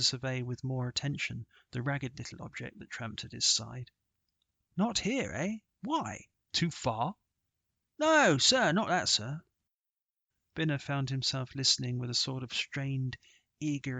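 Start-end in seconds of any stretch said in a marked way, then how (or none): 4.8-7.1 higher, probing questions; lightly voiced squire, quizzing; curious gentleman. Sir Harry questions caddie. 8.0-9.4 high, loud "No, sir"; a boy quick to deny; urgent denial. Acted.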